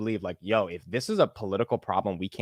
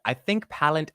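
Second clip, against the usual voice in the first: British try sliding into Texan, higher; attempted British accent slipping Texan; 4 semitones higher, slower than usual. Shown as a demonstration. Host struggles with British accent, Texan-sounding British attempt. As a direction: aim for British, land in Texan. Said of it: "I just start sounding like a fucking Texan".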